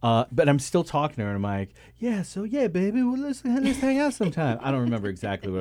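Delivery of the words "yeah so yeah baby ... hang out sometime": high-pitched imitation of a drunk chat-up; mock drunken come-on, pitched way up; hammered flirting. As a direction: play a tipsy guy sweet-talking on the phone. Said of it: "I was pretty hammered".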